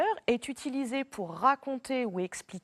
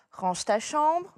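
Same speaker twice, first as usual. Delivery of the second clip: higher, louder, slow command; firm order; 5 semitones higher, 5 dB louder, slower than usual. Shown as a demonstration. Parent ordering a child to tidy up, slow and loud. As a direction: lay down the rule, word by word. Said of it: "Ici, c'est un ordre".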